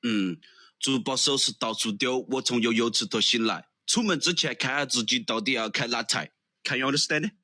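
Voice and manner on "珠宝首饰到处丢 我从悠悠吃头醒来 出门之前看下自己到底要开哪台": playful Sichuan dialect rhyme. Shown as a demonstration. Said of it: "can you speak Sichuan, Sichuan dialect".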